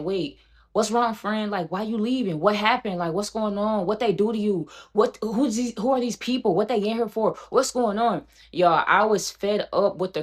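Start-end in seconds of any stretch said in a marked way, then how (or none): 0.0-8.2 lightly higher, playing dumb and worried; mock innocent questions to her friend; imitating confused friend. Mimicking friend Dory, feigning confusion, a touch higher. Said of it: "Dory was like".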